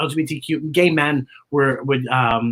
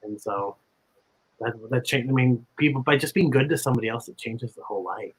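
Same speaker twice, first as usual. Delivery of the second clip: real emotion, voice dropping softer; getting emotional; 4 semitones lower, 4 dB quieter than usual. Real, not acted. Thanking her old teacher, quietly choked up. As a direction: hold back tears as you thank her. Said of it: "I know I'm gonna get emotional".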